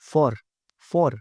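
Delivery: For said short and light; correct for. Shown as a demonstration. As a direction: say For as a quick weak for. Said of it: "क्या बोलना चाहिए".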